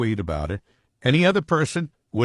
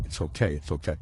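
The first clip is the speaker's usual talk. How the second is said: softer and lower, tired; weary quiet reassurance; 7 semitones lower, 8 dB quieter than usual. Retold or imitated. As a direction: murmur it, head in hands. Jennifer, head in her hands.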